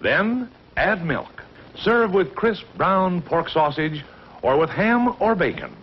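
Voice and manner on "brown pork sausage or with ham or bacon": put-on old recording. 1940s radio ad recording.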